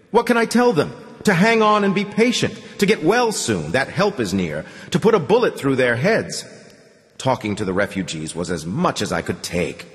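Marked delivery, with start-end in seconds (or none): 0.1-6.4 yelling, losing control. A narrator's reading. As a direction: snap under the strain. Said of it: "the Commandant yelled, losing control".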